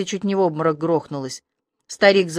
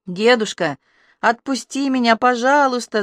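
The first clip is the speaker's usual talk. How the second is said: high pleading whine; pleading whimper; 4 semitones higher than usual. Acted. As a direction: beg him to let go, whimpering. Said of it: "заскулила Рыска". (скулящая мольба)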